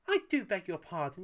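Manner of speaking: offended. A narrator's reading. Paella, offended, answers Wallace. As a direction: bristle but keep it polite. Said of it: "offended but trying to hide it".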